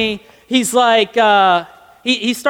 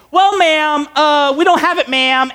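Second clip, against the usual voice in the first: higher-pitched apologetic clerk imitation; Kmart clerk; 3 semitones higher than usual. Clerk telling caller it is unavailable, imitated higher voice. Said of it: "she gets back on the phone".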